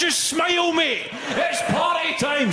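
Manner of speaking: high, loud, slow mock threat; mock menacing shout. Threatening the lift guy, shouted with mock menace. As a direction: yell it like a wound-up hard man.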